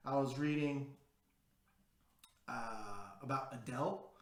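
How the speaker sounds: impersonation of a singer. Pretend. Vlogger jokingly imitating a singer, lightly British. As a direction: lightly put on a British singer's accent. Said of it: "That was my singer impersonation".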